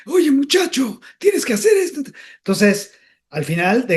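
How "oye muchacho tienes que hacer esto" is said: director's reply. Retold or imitated. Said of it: "Y de".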